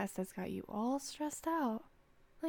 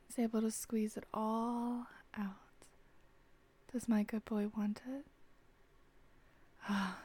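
intimate whisper. Acted. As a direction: whisper tenderly, drawing them in.

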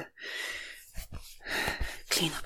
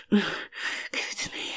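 whispered; 5 dB quieter, slower than usual. Acted. Intimate whispered demand.

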